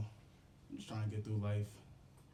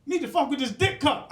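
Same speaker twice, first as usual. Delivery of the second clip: ordinary talk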